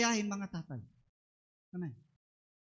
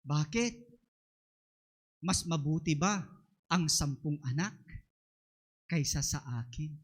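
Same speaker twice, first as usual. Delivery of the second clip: quoting Hannah; 7 semitones lower than usual. Retold or imitated. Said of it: "Sabi niya".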